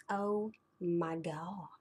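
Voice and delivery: breathy and slow, recalling the pain; pained hush. Retold or imitated. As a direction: draw it out in a hushed, overwhelmed voice. Recalling painful glare of sunlight.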